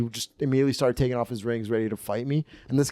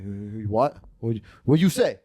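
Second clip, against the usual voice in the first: imitated Eastern European challenge, louder at the end; mock Eastern European confrontation; Eastern European accent; 4 dB louder than usual. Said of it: "in a thick Eastern European accent".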